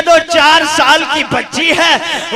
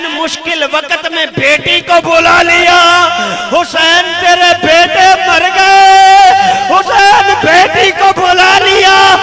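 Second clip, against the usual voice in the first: loud, higher mocking jeer, slower; taunting shout; 4 semitones higher, 5 dB louder, slower than usual. Killer taunting the wounded imam for calling his daughter, loud jeer. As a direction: jeer at him cruelly, stretching each word.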